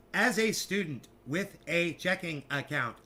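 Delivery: imitated automated recording, syllable by syllable; measured recorded-announcement voice; computerized female voice. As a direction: mimic a robotic bank disclaimer. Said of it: "computerized female voice".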